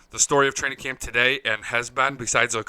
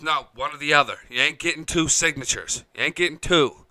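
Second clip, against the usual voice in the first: firm, a bit louder refusal; lightly voiced bossy aunt shutting him down; a touch of a stern aunt; 3 semitones higher, 4 dB louder than usual. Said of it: "and aunt goes".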